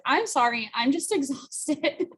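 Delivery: retold apology breaking into a laugh. Intern excusing herself to interviewer for seeming unexcited, laughing apology.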